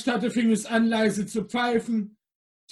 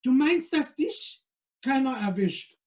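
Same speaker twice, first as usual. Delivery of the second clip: snippy; 4 semitones higher than usual. Acted. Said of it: "antwortete Helene patzig".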